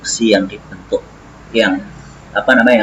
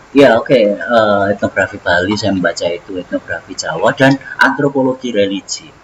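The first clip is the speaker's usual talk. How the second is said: talking around a cigarette; words round a cigarette while smoking; cigarette in mouth. Real, not acted. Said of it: "saya sambil merokok".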